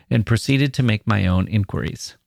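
plain reading voice

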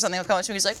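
ordinary talk, nothing marked

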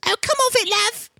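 high-pitched mock British woman. British woman after being pranked, high mock British accent. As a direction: toss it off like a pranked British lady. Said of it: "a British woman and she goes".

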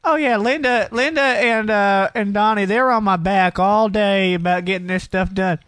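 high, slow whiny excuse voice; mocking friend's voice. Mimicking friend's excuses on phone.

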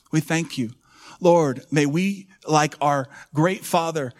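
earnest public prayer, rhythmically building; fervent prayer. Acted. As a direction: pray aloud over the congregation. Leads a closing prayer.

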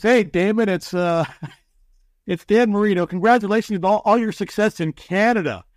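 mock cheerful message to Damon Allen; fake smile. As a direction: grin through it like he doesn't mean it. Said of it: "puts on the old fake smile".

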